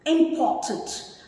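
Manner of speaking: "Important" pronounced with care, falling at the end; careful pronunciation. Shown as a demonstration. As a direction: model "Important" deliberately for a class. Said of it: "Please pronounce it properly".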